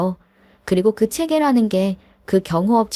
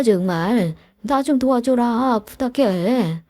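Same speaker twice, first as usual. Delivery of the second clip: slightly raised, begging voice of a desperate bully; pleading old classmate; 3 semitones higher than usual. Acted. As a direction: beg him for help, voice lifting. Narrator voices pleading classmate leader. (절박하게 매달리며 애원하는 동창 리더 목소리)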